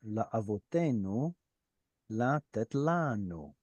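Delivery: slow, careful Hebrew recitation; slow scripture reading. Shown as a demonstration. Teacher reading the Hebrew verse aloud to the class. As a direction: read the verse slowly, word by word.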